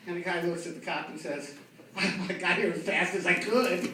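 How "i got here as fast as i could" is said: slow, dry deadpan. Retold or imitated. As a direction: say it slowly, straight-faced. Speeder's punchline.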